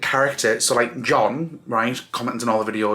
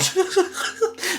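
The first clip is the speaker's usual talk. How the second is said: teary laugh. Real, not acted. Tearful laugh after losing composure.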